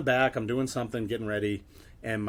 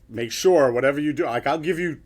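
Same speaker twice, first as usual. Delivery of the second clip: urgent instructions; 4 semitones higher, 7 dB louder than usual. Retold or imitated. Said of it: "I started talking to everybody".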